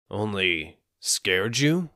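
slow, dry, uncaring question; unsympathetic. Acted. Soba seller slowly and coolly doubts the frightened man. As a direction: ask it slowly, unimpressed.

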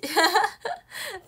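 bursting into loud laughter. Real, not acted. Cracking up loudly at a fan's joke. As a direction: let a big laugh out.

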